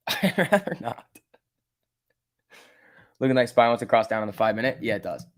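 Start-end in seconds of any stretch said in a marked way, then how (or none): 0.1-1.1 laughing refusal. Real, not acted. Laughs at a lewd chat suggestion.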